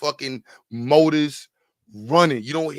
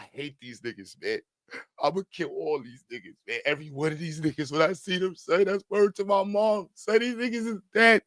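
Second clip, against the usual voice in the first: put-on crying drunk rant; 4 dB quieter than usual. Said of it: "just crying, talking about".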